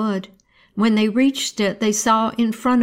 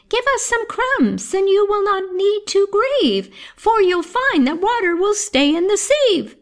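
very high chirpy bird voice; wren; 12 semitones higher than usual. Acted. Wren to the troubled boy, high and chirpy.

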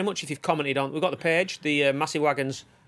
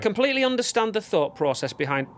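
higher, measured message read-out; reading aloud; 7 semitones higher than usual. Real, not acted. Podcast host reading Lauren's written comment, read-aloud delivery.

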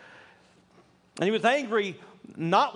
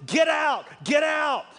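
higher, louder repeated "get out"; quoted shout; 8 semitones higher, 4 dB louder, slower than usual. Retold or imitated. Retelling a pastor shouting at Democrats to get out. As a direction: shout them out the door. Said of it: "and he's shouting".

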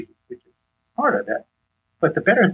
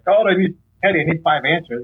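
higher, acted demanding entrance; mock rushing in; 5 semitones higher than usual. Husband rushing in on his wife for answers, mock demanding. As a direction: barge in with a pitched-up request. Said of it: "I don't rush into Patty".

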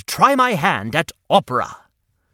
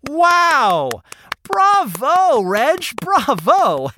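excited cheer; 8 semitones higher, much slower than usual. Real, not acted. Cheering after song.

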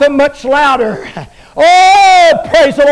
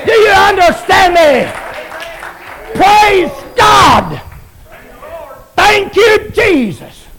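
fiery preaching; 3 semitones higher than usual. Acted. Preacher shouting triumph to the congregation, full force. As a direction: preach it to the rafters.

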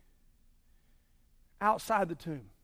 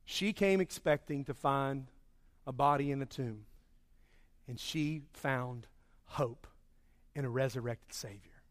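hushed reverent close; 7 semitones lower, 8 dB quieter than usual. Real, not acted.

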